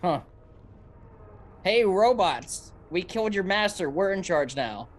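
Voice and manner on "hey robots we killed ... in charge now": calling out. Acted. Player tells robots their master is killed, calling out. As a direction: announce it to the robots, higher at first.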